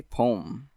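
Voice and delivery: "poem" pronounced pome, like home; "poem" as pome, second vowel dropped; one-syllable poem. Shown as a demonstration. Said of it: "Like, P O M E".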